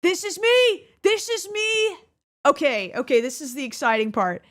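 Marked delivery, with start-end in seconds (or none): 0.0-2.0 high excited exclaiming. Real, not acted. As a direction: burst out with glee. Excited at seeing old self.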